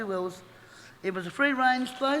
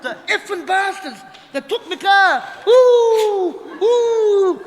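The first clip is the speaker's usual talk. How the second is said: bellowing curse at the top of his lungs; retold furious shout; loud angry yell; 9 semitones higher, 13 dB louder, much slower than usual. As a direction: roar it like a furious man in the car park. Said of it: "this big loud voice".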